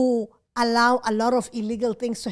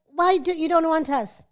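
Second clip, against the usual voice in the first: higher, louder attempt at a Nigerian accent; 4 semitones higher, 6 dB louder than usual. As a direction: try a Nigerian accent, half-failing.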